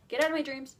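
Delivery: loud, insistent mock demand. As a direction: hit the order hard, mock-indignant. Louder repeat of retold demand.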